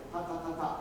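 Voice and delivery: "Ta, ta, ta, ta" as short open puffs; no stopping T. Shown as a demonstration. Teacher showing the band, open "Ta, ta, ta, ta" without stops. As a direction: repeat "Ta, ta, ta, ta" with the tongue never closing the syllable. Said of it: "without getting that T in".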